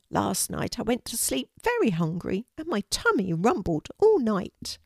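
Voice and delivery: a hint of a sad, hungry bird; hungry little pigeon. Pigeon tells Kelty it went to bed hungry, lightly voiced pigeon.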